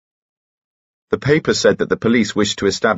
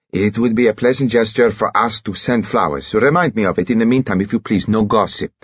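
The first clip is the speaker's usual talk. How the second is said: raised-pitch suave character voice; foreign gentleman; 5 semitones higher than usual. A narrator's reading. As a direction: instruct your servant with measured courtesy. Dimitri's voice, instructing his servant.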